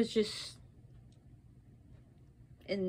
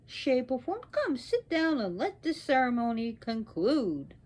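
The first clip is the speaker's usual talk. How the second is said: smooth, flattering apology; placating plea. Acted. Brahma begs his angry wife's forgiveness, placating.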